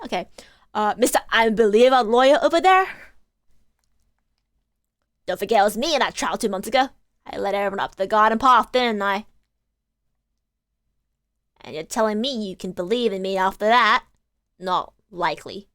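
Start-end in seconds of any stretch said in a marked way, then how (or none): 5.2-15.7 put-on fast, cocky Cockney girl; defiant street urchin. Gina taunts Phoenix about the old trial, cocky. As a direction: rattle it off, mocking herself. Reads Gina's defiant lines.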